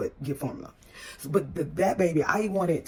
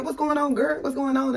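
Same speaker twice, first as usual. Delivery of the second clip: friendly sister voice; 8 semitones higher than usual. Retold or imitated. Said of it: "when she opened her mouth, I knew she was a sister".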